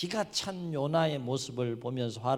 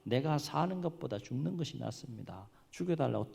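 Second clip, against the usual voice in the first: ordinary talk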